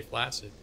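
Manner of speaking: 'flaccid' as FLASS-id; soft s in the middle of 'flaccid'; proper pronunciation. Retold or imitated. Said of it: "saying the word flaccid".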